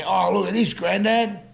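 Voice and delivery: mock kid marvelling at the window; whining child. Grandson Henry showing Grandad the window, whiny. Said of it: "he was whining".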